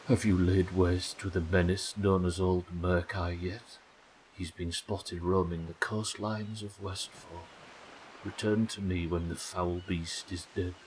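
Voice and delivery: slow, measured formal delivery; lightly voiced solemn quest giver. Ghost asking if the menace is slain, solemn.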